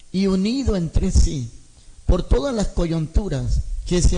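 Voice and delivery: slow, deliberate scripture reading with long pauses; lectura bíblica pausada. Acted. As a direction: read each phrase slowly, letting the words settle. Lee la Escritura despacio. (lectura lenta y solemne)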